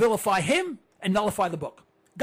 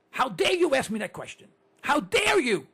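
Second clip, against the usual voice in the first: mock indignation; 4 semitones higher than usual. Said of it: "I mean, joking around".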